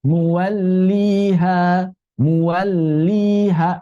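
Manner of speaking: 'Muwalliha' slow, double l held and connected; slightly flowing lam. Shown as a demonstration. Teacher models the reading, lam near rakhawah. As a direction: let the l in 'Muwalliha' flow a little. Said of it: "agak mirip rokhawah".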